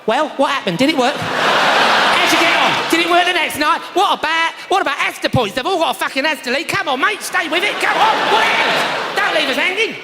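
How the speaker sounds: hammed-up London accent, badgering. London audience demanding the story's ending, exaggerated London accent. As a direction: pester for the answer in broad mock London. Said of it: "'Cause that's how they speak in London".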